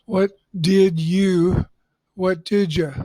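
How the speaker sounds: "what did you" slowed, then "what did ya" relaxed; slow contrast drill; full then reduced. Shown as a demonstration. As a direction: show the shift to ya. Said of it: "that adding a J".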